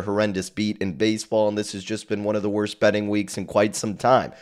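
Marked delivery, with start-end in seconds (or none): none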